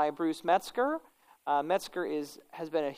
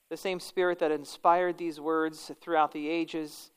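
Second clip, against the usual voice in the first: prayer; 2 semitones lower than usual. Acted. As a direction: pray it gently and earnestly. Leads the class in prayer.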